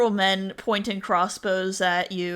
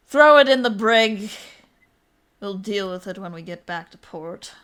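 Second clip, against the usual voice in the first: pirate captain. Acted. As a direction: weigh the prisoner, then bark the order. Pirate captain gives orders on prisoner.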